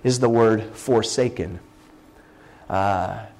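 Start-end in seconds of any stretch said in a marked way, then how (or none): 0.0-1.6 slow, weighty forsaken; slow emphatic. Shown as a demonstration. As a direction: land on the word forsaken slowly. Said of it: "it slides off my tongue".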